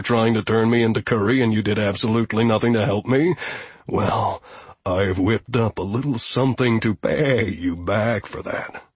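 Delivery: dry, resentful billy goat; a grumpy goat settling scores; sardonic goat voice. Acted. Goat Gustav speaks.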